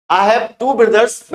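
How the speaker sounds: slow model sentence. Shown as a demonstration. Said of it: "teacher models plural sentence".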